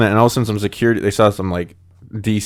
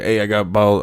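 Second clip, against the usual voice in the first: put-on Baltimore accent. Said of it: "butchering the Baltimore accent".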